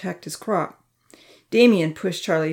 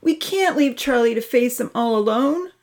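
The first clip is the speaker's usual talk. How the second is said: higher-pitched urgent appeal; panicked plea; 6 semitones higher than usual. A narrator's reading. Santa urges the girls to help Charlie, panicked. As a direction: plead for a friend, voice raised in pitch. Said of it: "running down the stairs in a panic".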